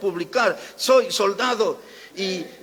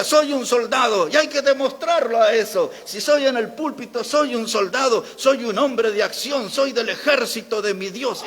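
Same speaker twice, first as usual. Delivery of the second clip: rousing, raised-pitch pulpit declaration; emphatic; 3 semitones higher than usual. Retold or imitated. Preacher quoting a pastor's soldier message from the pulpit, emphatic. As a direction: build a forceful list, driving each phrase home. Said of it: "Y enfatizaba en eso".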